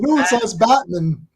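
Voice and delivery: "Batman" ending in a weak "mun"; Batman as a surname. Retold or imitated. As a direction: insist on "BAT-mun", second syllable swallowed. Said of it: "the parents kept saying Batman".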